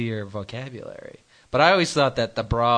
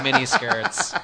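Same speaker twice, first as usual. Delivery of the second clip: laughing; 9 semitones higher, slower than usual. Real, not acted. Laughing through the punchline.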